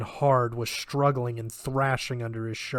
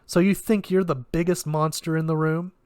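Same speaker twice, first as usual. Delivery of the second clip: challenging; 4 semitones higher, 5 dB louder than usual. Acted. Challenging the monster.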